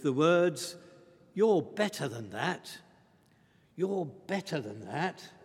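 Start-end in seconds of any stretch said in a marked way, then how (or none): 3.8-5.3 repeated much softer, gently pressing. Retold or imitated. Morse quietly restraining Thursday, softer repeat. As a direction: say it again quietly, as a gentle reminder.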